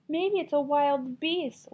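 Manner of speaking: high, slow little bear squeal; a small bear squeals in fright. Acted. Little bear squeals to his parents, high and slow. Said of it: "Little Wee Bear squealed".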